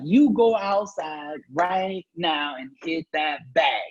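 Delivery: very slow, every word spelled out; insistent order. Retold or imitated. Mother on the phone slowly insisting he hit the bag. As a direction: drag out each word like a stern mom. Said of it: "she kept persisting".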